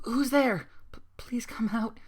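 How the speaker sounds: high frightened call falling to a whisper; scared call. A narrator's reading. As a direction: call into the dark, afraid. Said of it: "she says, more scared than ever".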